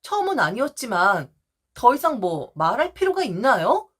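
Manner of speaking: usual speaking voice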